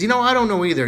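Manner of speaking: put-on high, loud childish reply; little kid voice. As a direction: blurt it like a clueless kid. Johnny's quoted reply.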